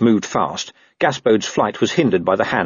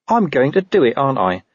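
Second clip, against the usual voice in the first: higher start, dropping at the end; resigned admission; 5 semitones higher than usual. Acted. Dog accepting the job, grudging and resigned. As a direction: give in grudgingly, without force.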